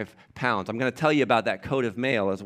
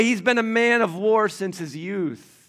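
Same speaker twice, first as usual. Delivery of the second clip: scoffing king; 7 semitones higher, 5 dB louder than usual. Acted. Saul scoffs at David.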